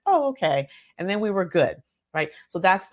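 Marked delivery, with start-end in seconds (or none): 0.1-0.7 put-on higher, louder child's relieved "Oh, okay"; a kid letting go of his worry; son relieved. Son answers his mother after her reassurance, relieved and higher. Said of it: "he was like".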